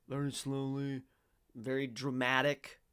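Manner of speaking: badly faked British newsreader accent; slow, dramatic British accent. Mimicking the man in the old clip, mock British accent. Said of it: "speaking with a British accent, very".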